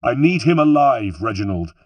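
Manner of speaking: loud, high urgent call; urgent order, easing on the name; shouted order. A narrator's reading. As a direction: shout it back at your companion. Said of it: "I shouted back at him".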